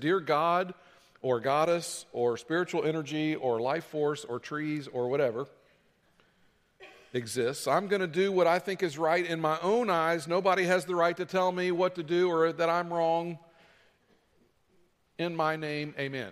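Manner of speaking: ordinary talk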